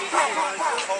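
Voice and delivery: imitated gunshots. Witness recounting the shots heard, imitated gunfire pops. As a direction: pop out the shots one by one. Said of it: "like, eight shots".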